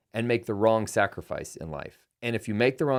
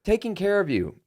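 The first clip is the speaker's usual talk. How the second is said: higher, slow, put-on defensive voice; a hammed-up defensive husband, high and slow; mock defensive husband; 10 semitones higher, 5 dB louder than usual. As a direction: play the excuse-making spouse, pitched up. Acted husband-wife quarrel.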